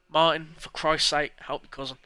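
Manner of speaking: aunt snapping at Martin; scolding aunt. Acted. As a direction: scold the lazy son. Aunt scolding her son.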